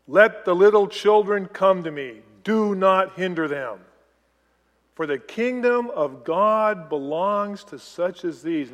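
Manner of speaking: loud, firm, measured command; forceful scriptural rebuke, deliberately spoken; angry rebuke. Acted. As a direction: quote it as a stern order, each word driven home. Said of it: "he is angry with them".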